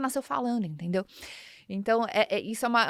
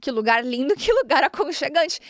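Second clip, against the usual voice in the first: literal hearing; 3 semitones higher than usual. Shown as a demonstration. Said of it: "o que que ele escutou".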